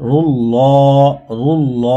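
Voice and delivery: ল in রুল ল said thick and full; heavy Allah sound. Shown as a demonstration. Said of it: "আল্লাহ শব্দকে পর করিয়া মোটা করিয়া পড়তে হয়".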